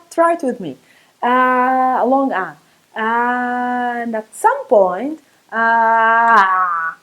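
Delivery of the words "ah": ah tightened in the throat; choked ayn sound. Shown as a demonstration. Teacher demonstrating the guttural ayn, choked. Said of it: "choke yourself".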